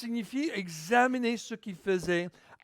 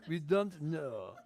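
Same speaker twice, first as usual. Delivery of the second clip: slow English in a French accent; 3 semitones lower, 5 dB quieter, slower than usual. Shown as a demonstration. Preacher repeating his English aside for laughs, slow French accent. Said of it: "J'ai essayé de dire ça avec un accent français".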